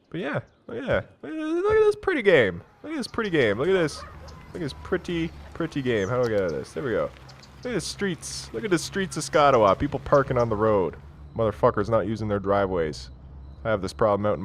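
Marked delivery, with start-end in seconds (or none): 0.1-6.1 high put-on voice gushing over the game; high baby-talk admiration; cooing falsetto. 7.6-9.8 a touch higher, gushing over the streets; half-hearted coo; lightly raised sing-song admiration; mild cooing voice. Pretend.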